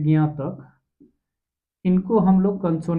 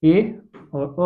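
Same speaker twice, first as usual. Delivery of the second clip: slow demo; much slower than usual. Shown as a demonstration. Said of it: "ख, ग से शुरू होगा तो".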